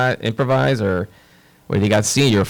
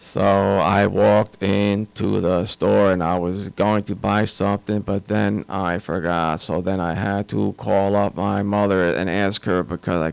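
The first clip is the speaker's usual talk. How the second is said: slow, droning monotone with no inflection at all. Imitating someone doing a scene in a monotone voice, flat monotone. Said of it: "with the monotone voice and they talk like that and it's horrible".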